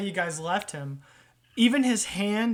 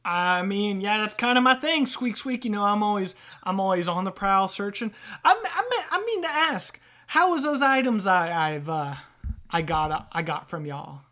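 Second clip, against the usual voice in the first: lightly voiced scrounging rat; hint of a hustler rat fishing for feedback; streetwise rat trader; 3 semitones higher, 4 dB louder than usual. Rat asking customers about his items, lightly streetwise.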